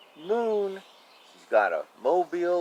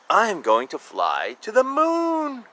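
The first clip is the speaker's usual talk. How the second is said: determined; 9 semitones higher, 4 dB louder than usual. Acted. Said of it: "she said".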